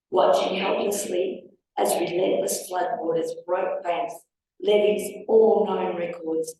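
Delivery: reading her own poem. Acted. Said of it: "we're gonna read you something I wrote".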